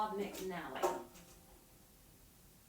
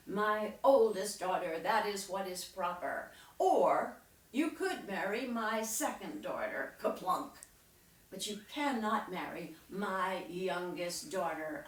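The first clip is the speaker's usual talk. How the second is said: lightly voiced stern king; a touch of royal firmness; king with a temper; 4 dB louder than usual. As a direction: lay down the law as a king, mildly.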